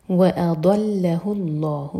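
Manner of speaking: slow, with a full, heavy ض in وأضلہ; thick ض in وأضلہ, drawn out; heavy dad. Shown as a demonstration. Teacher modelling heavy dad to students, slow. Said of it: "ضاد heavy".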